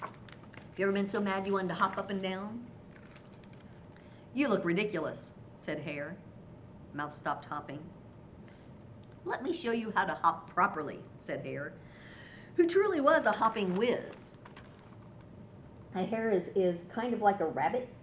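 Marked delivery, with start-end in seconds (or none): 4.3-14.3 lively picture-book reading; story narration. A narrator's reading. Grandma reads Hare's scolding to children, storytelling voice. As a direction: read expressively, as if to small children.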